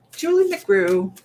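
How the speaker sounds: slow, stretched-out "Julie McGrew"; drawn-out name. Shown as a demonstration. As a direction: savour each syllable of "Julie McGrew". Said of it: "this actually is for".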